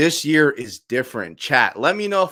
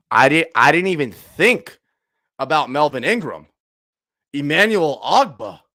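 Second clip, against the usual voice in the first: louder; 6 dB louder than usual. Real, not acted.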